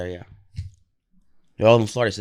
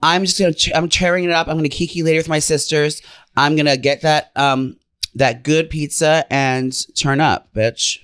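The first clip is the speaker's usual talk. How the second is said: lifted, sassy queen hype talk; sassy drag queen; 3 semitones higher than usual. Acted. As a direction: serve it like a diva with attitude. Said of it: "talk like a drag queen to me".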